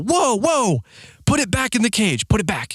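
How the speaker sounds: high, alarmed movie-character voice; panicked mock plea. Man begs agent to calm down, high acted panic. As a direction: act out frantic pleading, pitch way up.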